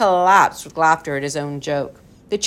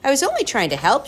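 put-on hurt girl voice; 8 semitones higher, much faster than usual.

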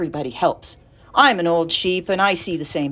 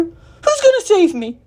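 high, slow, loud question; pleading, high-pitched voice; eager cry; 13 semitones higher, 5 dB louder than usual. Acted. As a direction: cry it out in a hopeful squeal. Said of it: "cried Wilbur".

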